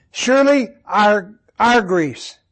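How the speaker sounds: "our" leaned on before "griefs"; stress on our. Shown as a demonstration. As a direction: put the weight on "our". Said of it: "the emphasis is on the plurals".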